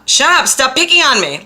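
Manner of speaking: loud high shout of stop picking on me; loud retort. Retold or imitated. To the mean voice, a loud high shout. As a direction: yell stop picking on me at the bully. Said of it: "I say to that mean liar voice".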